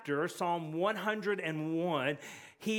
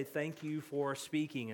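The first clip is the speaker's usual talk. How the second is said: grateful; 3 semitones lower, 5 dB quieter than usual. Shown as a demonstration. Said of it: "we want to say".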